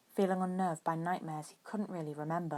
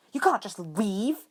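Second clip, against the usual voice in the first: higher, louder and slow; snapped order; 5 semitones higher, 7 dB louder, slower than usual. A narrator's reading. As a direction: lay down the law angrily. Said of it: "one of the Aurors snapped".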